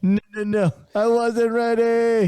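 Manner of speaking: high, slow Kevin Hart line; Kevin Hart impression. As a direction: pitch it up and drag it out. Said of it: "That's what your stomach was saying".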